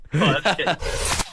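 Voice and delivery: "Quite a few" drawn out very slowly and teasingly; slow mock-knowing repeat. Joking about impolite Englishmen.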